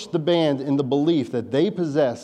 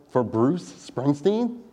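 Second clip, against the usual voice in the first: incredulous; slower than usual. Retold or imitated. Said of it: "And my thought was".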